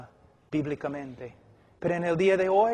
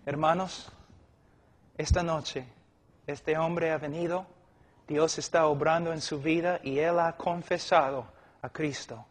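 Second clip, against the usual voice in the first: sober announcement. Shown as a demonstration. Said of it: "Es mejor decir".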